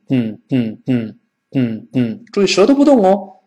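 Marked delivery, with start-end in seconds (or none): 0.1-1.9 嗯 as short puffs through the nose; nasal plosion. Shown as a demonstration. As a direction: release 嗯 nasally, tongue held still. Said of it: "现在跑鼻子里边就变成嗯". (嗯 鼻腔爆破)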